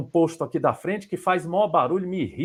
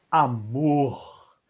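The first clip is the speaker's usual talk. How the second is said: "Amor" lower with a falling tune; different intonation; 5 semitones lower than usual. Shown as a demonstration. Teacher showing another "Amor" with a falling tune. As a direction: let "Amor" fall, low. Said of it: "A mesma palavra você deu várias entonações".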